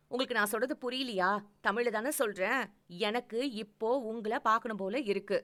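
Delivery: a lightly voiced girlfriend pressing her point; pushy lover who won't take no; impatient young woman. Female lover voiced, insisting.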